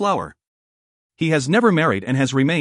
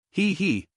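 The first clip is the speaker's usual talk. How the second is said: dry chuckle; 4 semitones higher, 5 dB quieter than usual. A narrator's reading. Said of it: "chuckled dryly".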